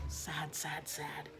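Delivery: trailing off into a hushed, mournful sad; fading sad repetition. A narrator's reading. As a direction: let the sads die away to almost nothing. Repeated word fading out.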